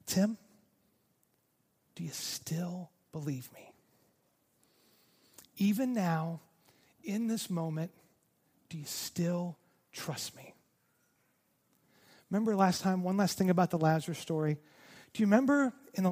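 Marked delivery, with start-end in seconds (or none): 0.1-10.5 soft, slow, hushed voice of God; gentle inner voice. Retold or imitated. God gently asking Tim during his cancer, hushed. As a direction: ask it tenderly, almost a whisper. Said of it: "the voice of God was whispering to me".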